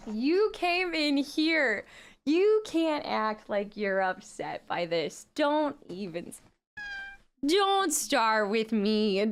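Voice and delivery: slow, drawn-out mock telling-off of a pet; mock scolding. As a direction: scold the cat playfully, stretching the words.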